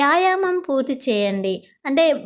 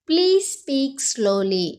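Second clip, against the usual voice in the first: very slow, clear classroom English; slow model phrase; much slower than usual. Shown as a demonstration. Teacher modelling the phrase for Telugu students, slow and clear. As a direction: spell it out slowly for learners. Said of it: "అప్పుడు ఇలా అనాలి".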